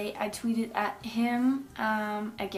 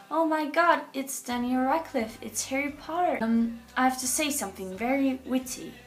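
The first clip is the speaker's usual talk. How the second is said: breathless fangirl excitement, pitched up; starstruck; 2 semitones higher than usual. Retold or imitated. Fan recalls meeting Daniel Radcliffe, starstruck excitement. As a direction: gush like you can't believe who's in front of you.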